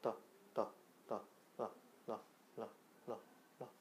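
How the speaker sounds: 터 losing force, trailing to a faint tap; 터 melting into an l-like flap; t fading into an r. Shown as a demonstration. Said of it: "힘을 쭉 빼서".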